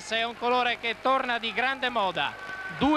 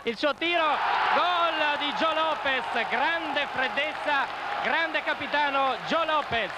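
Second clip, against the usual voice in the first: rising excited goal call; breathless italian goal commentary; 3 semitones higher than usual. Real, not acted. Penalty scored, commentator erupts. (telecronaca emozionata del gol)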